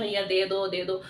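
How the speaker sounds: low-pitched, gently coaxing mock plea; imitated loving plea. Teacher acting a plea to an angry man, gently coaxing. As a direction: mimic asking very kindly, voice dropped. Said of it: "बहुत प्यार से बोलते हैं".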